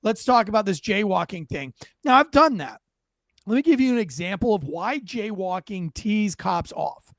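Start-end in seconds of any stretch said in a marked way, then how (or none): 0.0-1.7 lightly voiced friendly cop, casual and inviting; a hint of a laid-back cop asking nicely. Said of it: "And you're like".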